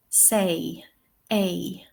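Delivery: "say", then its vowel "a" alone, gliding as in RP; RP diphthong. Shown as a demonstration. Teacher modelling RP for learners, "say" and "a" as one glide. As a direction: say "say" and "a" as the king would, in RP. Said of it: "How would the king say this?".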